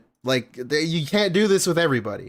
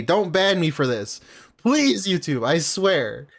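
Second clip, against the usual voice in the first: mock plea; 2 semitones higher, slower than usual. Streamer begging YouTube not to ban him, mock pleading. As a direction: beg the platform not to ban you, playfully.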